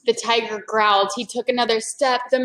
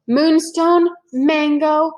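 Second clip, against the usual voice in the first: eager listing; 5 semitones higher, 5 dB louder, much slower than usual. A narrator's reading. Annie lists the M things.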